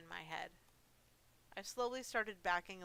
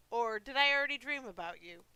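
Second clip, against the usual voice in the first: louder, lightly voiced old man; old man monster; 3 semitones higher, 8 dB louder than usual. Sleepy monster doubting the visitor is real, lightly voiced old man. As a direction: muse like a doddery old monster. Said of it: "His voice and cough sounded more like an old man".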